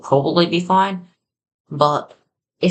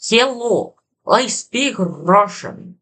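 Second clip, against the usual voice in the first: high, slow put-on Russian accent; 6 semitones higher, much slower than usual. Shown as a demonstration. Language learner testing the method, hammed-up Russian accent. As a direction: try a drawn-out Russian accent, pitched up. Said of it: "trying to speak in a Russian accent".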